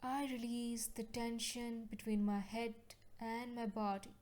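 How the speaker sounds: measured, evenly paced affirmation voice; calm guided-meditation delivery, settling at each phrase end. Acted. Leads healing affirmations in meditation.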